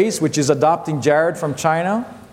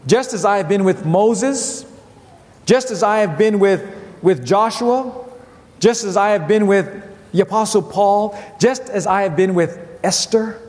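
raised, building sermon refrain; preaching refrain; 3 semitones higher than usual. Acted. Preacher voicing God's promise to the congregation, building. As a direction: repeat each line with rising fervor.

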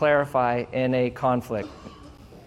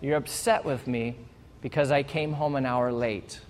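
softer, patient, calm repeating back; calmly clarifying; 3 semitones lower, 6 dB quieter than usual. Pretend. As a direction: gently restate what they said. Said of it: "You calmly clarify".

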